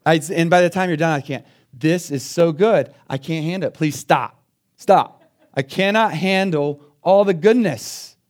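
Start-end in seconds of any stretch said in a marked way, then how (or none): 1.7-8.2 overwhelmed at the steakhouse. Acted. Overwhelmed diner begging to stop.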